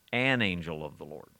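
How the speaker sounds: "An" leaned on, not "the"; teacher reading "An angel of the Lord" to contrast the article; stress on AN. Shown as a demonstration. Stress on AN. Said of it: "exactly as it appears in verse nineteen".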